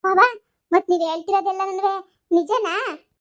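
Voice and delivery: tearful question. Acted.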